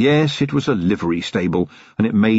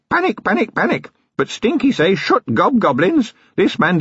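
high, strange goblin hiss in broken English; much higher creature voice, eager and conspiratorial; 12 semitones higher than usual. Acted. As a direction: rasp it out like a sly little goblin. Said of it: "who hissed".

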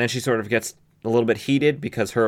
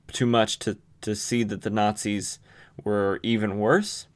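usual speaking voice

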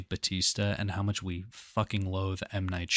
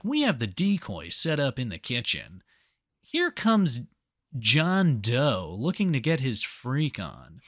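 Chris Hansen; 3 semitones higher, slower than usual. Retold or imitated. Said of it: "Chris Hansen's like".

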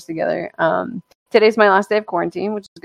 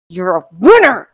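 pep talk to himself; 7 dB louder than usual. Retold or imitated. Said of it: "and he's just like".

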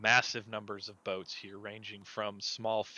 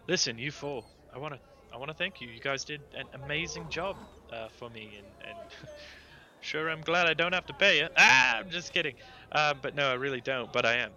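higher-pitched captain giving thanks; joking boss, bursting louder on the tease; brusque grateful Lady Bianca; 5 semitones higher, 8 dB louder than usual. Acted. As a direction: thank them, then kid them loudly. Game master voices Lady Bianca.

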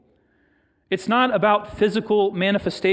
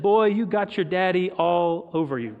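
Alabama vernacular. Retold or imitated. Woman at the bank to a friend's son, light Alabama accent. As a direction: put on a touch of homely Alabama twang. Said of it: "in her best Alabama vernacular".

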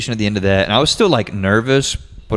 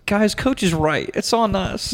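pep talk; 11 semitones higher, slower than usual. Pretend. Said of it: "you definitely need to be the person that's like".

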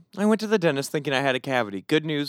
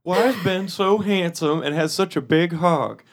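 awkward greeting; 2 semitones higher than usual. Pretend. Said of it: "Hey, Josh, what's it say?".

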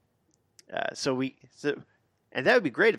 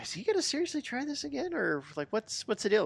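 exasperated; 11 semitones higher than usual. Retold or imitated. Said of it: "I go".

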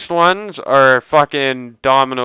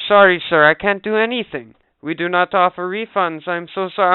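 lightly mocked agent in a higher pitch; put-on sorry customer-service voice; apologetic agent; 5 semitones higher than usual. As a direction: imitate a rep reciting an apology. Acting agent refusing a refund.

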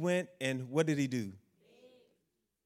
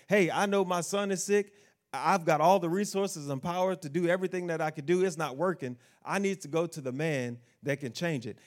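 desperate father; 2 semitones higher than usual. Acted. Preacher voicing the official's plea, mildly desperate. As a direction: plead it like a man out of options.

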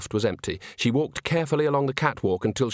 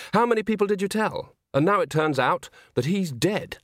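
put-on young woman voice; 8 semitones higher than usual. A narrator's reading. Agnes voice, higher.

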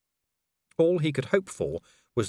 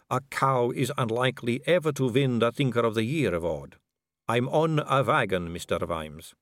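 a vampire noblewoman purring at a dangling man; suave vampire lady; 3 semitones higher than usual. Acted.

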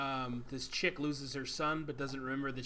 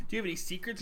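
higher-pitched mimicry of her asking; imitated woman's question; 6 semitones higher, much faster than usual. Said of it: "She's like".

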